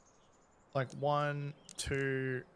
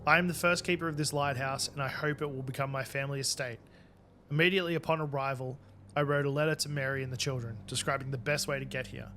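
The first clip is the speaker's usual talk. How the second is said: diary narration. Acted. Reading keeper's diary entry.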